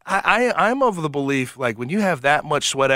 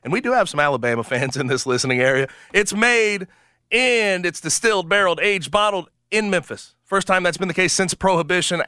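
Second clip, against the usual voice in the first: chipper 1950s ad. Acted. Live read sponsor ad.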